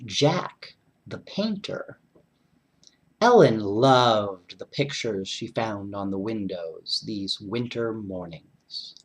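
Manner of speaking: lively read-aloud voice; story narration. A narrator's reading. Reading a second winter story to children, lively narration. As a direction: read it warmly to the kids.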